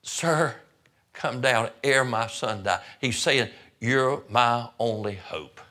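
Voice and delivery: pleading nobleman. Retold or imitated. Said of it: "He said".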